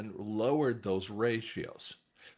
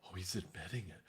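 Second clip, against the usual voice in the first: mock gotcha; 7 semitones lower, 12 dB quieter, faster than usual. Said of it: "And you're going".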